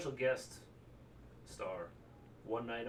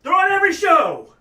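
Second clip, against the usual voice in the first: much higher, far louder rant; shrill rant; 20 dB louder than usual. Real, not acted. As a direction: shriek it like a fed-up fan. Fan ranting in funny voice.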